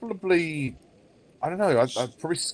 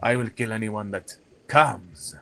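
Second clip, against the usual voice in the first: Puss in Boots; 3 semitones lower, slower than usual. Acted. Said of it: "do a Puss in Boots impression".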